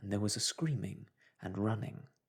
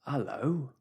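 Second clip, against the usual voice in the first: a raised call to the door; cried out; 5 semitones higher, 5 dB louder than usual. Acted. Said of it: "cried the policeman".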